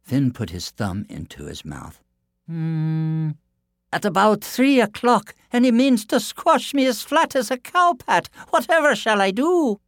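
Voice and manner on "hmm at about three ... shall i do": much higher, louder panicky voice; fretful giant. A narrator's reading. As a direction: whimper with rising panic. Frightened giant frets.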